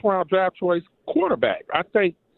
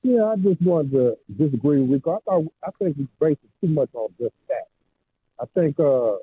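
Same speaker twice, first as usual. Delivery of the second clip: muffled phone line; 3 semitones lower, faster than usual. Real, not acted. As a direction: caller sounds muffled. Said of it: "You're kinda muffled".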